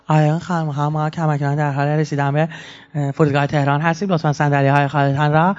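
lightly imitated flight attendant with foreign-accented Persian; mock a cabin announcement in foreign-sounding Persian. Flight attendant announcing arrival in Tehran, in mock foreign-sounding Persian.

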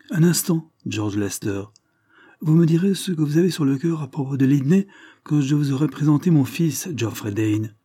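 put-on an old lord announcing his son with pride; proud old lord. Lord Dane to the squire, proud and booming.

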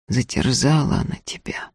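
low, gloomy question. Acted. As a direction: ask it darkly and quietly. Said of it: "хмуро спросил он".

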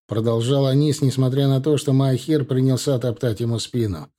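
ordinary delivery

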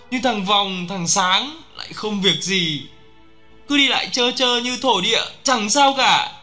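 high-pitched, wailing lament; keen over lost comrades, reproaching them; crying out in grief. A narrator's reading. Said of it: "Tôi cứ gào lên khóc giữa cánh rừng".

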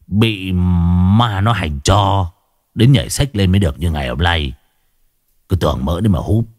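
sneer, lips pursed in disdain; scornful. Acted. Ghost-catcher mocking the old man's wish to learn magic, scornful. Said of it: "thì bĩu môi".

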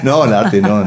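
risa y después el "no" más fuerte; ríe de acuerdo con él; riendo. Real, not acted. (riendo, le da la razón al músico)

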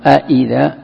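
أإذا with its second hamza softened toward ya; eased hamza. Shown as a demonstration. Teacher introducing tasheel, second hamza of أإذا eased. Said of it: "تسهلها بحيث أنك تنطق".

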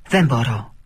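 a loud cry of refusal; screamed refusal. A narrator's reading. Klitia refusing the call to come closer, screamed. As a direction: shout «Δεν μπορώ» out in panic. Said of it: "ούρλιαξε η Κλητία".

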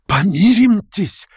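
high, slow begging; desperate plea. A narrator's reading. Verkhovensky pleading with Stavrogin, high slow plea. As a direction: beg for peace.

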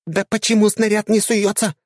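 high squeaky frustrated yell; mechanic yelling. A narrator's reading. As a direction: shout it high, baffled dryad. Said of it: "кричала механик".

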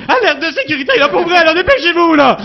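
loud, panicky high alarm voice; emotional computer voice. Retold or imitated. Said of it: "tu vois qu'il y avait comme de l'émotion". (voix d'ordinateur paniquée, criée)

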